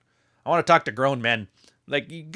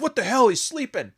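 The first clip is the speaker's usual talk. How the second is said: mock surprise; 10 semitones higher than usual. Referee waking, surprised.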